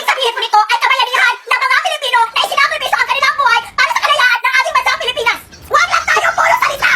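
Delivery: high-pitched, impassioned oratory; over-the-top declamation. Acted. Student answering teacher on first day, overblown speech. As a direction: declaim it high, building to a shout. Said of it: "Palong-palo ka agad".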